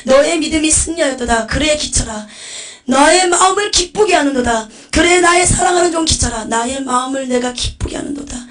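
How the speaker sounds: high, loud exultant proclamation; ringing, joyful praise; overjoyed divine voice. Acted. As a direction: proclaim delight as the Lord to a beloved servant. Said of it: "너무나 기쁜 음성으로".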